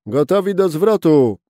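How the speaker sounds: loud, high call across the deck. A narrator's reading. Skipper calls the crew to ready the turn, loud and high. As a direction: shout the order to the crew. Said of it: "zawołał".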